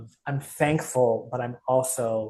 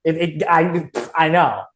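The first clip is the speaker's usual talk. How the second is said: tearful; 5 semitones higher, 8 dB louder than usual. Real, not acted. Guest overwhelmed admitting struggle.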